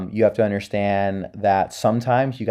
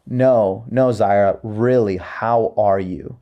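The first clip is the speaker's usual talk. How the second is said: slow, earnest second ask; sincere check-in; slower than usual. Shown as a demonstration. Leader asking someone a second time how they are, sincere. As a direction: press gently and draw out the question. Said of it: "you say it with that kind of tone as well".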